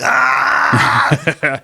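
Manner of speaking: a quick mock Chucky yell; Chucky yell imitation. Gamer imitating the killer's yell for a friend: mock yell. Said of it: "that signature, like, Chucky yell".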